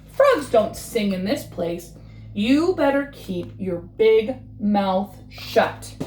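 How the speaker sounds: slow, scolding warning; slow scolding friend. Acted. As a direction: lean in and warn him slowly. Friend warns Frog off.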